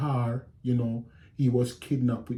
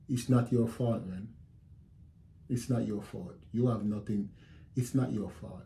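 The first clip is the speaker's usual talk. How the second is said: soft, reassuring retold comfort; consoling; 4 dB quieter than usual. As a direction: gently tell her it is not her fault. Consoling his upset wife.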